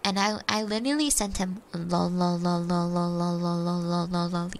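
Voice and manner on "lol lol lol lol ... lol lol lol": low monotone string of lols; robotic, droning mock laughter read from a text; deadpan mocking. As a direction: chant it low on one unchanging note. Reading out her mocking texted reply.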